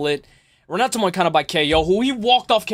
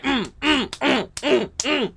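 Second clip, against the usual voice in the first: mock dazed mumbling; 5 semitones higher, much slower than usual. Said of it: "he's just like".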